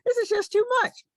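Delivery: high, strained cry of being overwhelmed; overwhelmed wail. Retold or imitated. Patient to doctor, high overwhelmed wail. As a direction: wail it like it's all too much. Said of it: "You know, I said".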